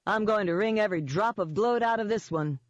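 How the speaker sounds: a hint of relish in it; gloating Eden. Eden relishing his coming phone call, lightly voiced gloating.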